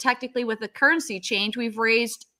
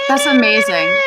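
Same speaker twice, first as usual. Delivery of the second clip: thrilled shout, much higher and louder; excited shout; 13 semitones higher, 7 dB louder than usual. Real, not acted. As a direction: shout it out in delight. Celebrating fundraising total.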